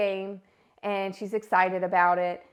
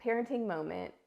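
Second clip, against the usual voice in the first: inner thought; 6 dB quieter than usual. Retold or imitated. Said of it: "And I'm like".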